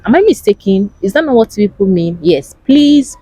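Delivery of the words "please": mock pleading. Mimicking begging-like polite greetings.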